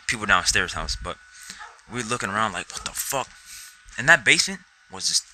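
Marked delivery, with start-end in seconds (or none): 2.7-3.3 soft, whispery re-enacted question; hushed disbelief. Cousins looking around the house, hushed disbelief. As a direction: whisper it, acting out bewilderment.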